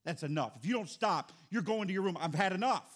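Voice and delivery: a father's scolding climbing in anger; retold scolding, building. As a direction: escalate from a warning to a loud ultimatum. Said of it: "I just was telling him".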